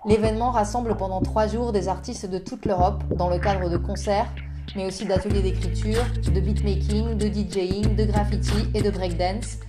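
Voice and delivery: scripted presenter introducing a guest over music; podcast intro read. Acted. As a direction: read it out evenly, like a prepared introduction. Reads a prepared presentation. (lecture posée d'une présentation écrite)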